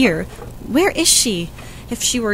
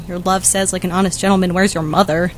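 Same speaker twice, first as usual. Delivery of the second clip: lower, mock-solemn echo of the nurse's "like an honest gentleman"; 3 semitones lower, faster than usual. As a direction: parrot her words back dryly. What an odd thing to say.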